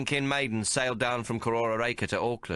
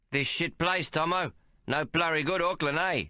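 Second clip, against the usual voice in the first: Billy complaining; 7 semitones higher than usual. A narrator's reading. Billy complains, high and louder.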